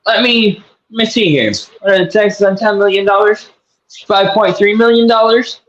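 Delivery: a hint of New York big-shot swagger; New York accent. Rich booster playing a New York wiseguy, light New York accent. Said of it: "I don't know why I have a New York accent".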